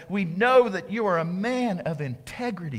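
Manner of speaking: oily, fawning compliment; butter him up with fake praise; slurpy flattery. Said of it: "Can you hear it? Just slurpy".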